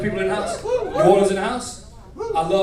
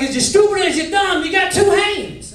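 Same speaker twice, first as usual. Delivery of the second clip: high, loud Southern grandfather; Deep South accent; 12 semitones higher, 6 dB louder than usual. Retold or imitated. Grandfather scolding his grandson, loud Deep South accent. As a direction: scold in a pitched-up Mississippi accent. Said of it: "he was from deep south in Mississippi".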